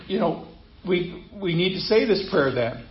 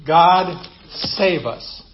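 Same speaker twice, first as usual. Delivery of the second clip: slow and deliberate; much slower than usual. Shown as a demonstration. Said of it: "which literally means what".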